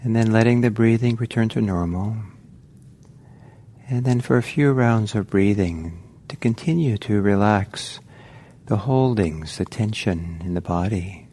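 calm, unhurried meditation guiding with long pauses; guided meditation. Real, not acted. Teacher guiding meditators to relax into the body, calm guided meditation. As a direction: ease listeners gently into relaxing, leaving space between phrases.

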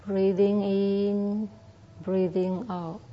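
slow, drawn-out guiding words; slow breath guidance. Shown as a demonstration. Teacher guiding monks, slow and drawn out. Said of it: "first of all".

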